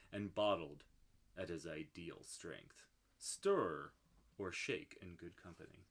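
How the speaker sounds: low, soft, sultry label read; sexy voice. Pretend. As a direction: read it like a seductive ad. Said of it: "We gotta do the sexy voice".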